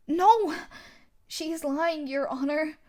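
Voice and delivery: sharp loud denial, then calmer; loud protest. Acted. Defendant protesting loudly to the judge. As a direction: cut in loudly to deny it.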